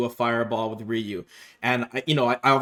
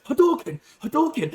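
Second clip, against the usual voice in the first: mock fireball callout; 11 semitones higher than usual. Opponent spamming fireball move.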